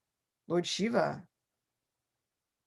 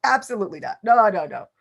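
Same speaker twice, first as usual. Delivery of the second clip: indignant refusal; 8 dB louder, faster than usual. Acted. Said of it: "And she's thinking".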